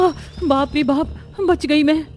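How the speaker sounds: slow, startled gasp of fright; frightened gasp. Acted. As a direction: jump at the cobwebs, then catch your breath. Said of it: "जिससे नताशा डर जाती है".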